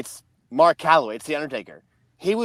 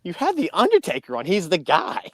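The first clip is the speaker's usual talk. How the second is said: higher-pitched, mock-incredulous teasing; lightly acted mocking disbelief; teasing ribbing; 4 semitones higher than usual. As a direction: imitate a friend poking fun at someone who got fooled. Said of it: "Cody starts making fun of LaGreca".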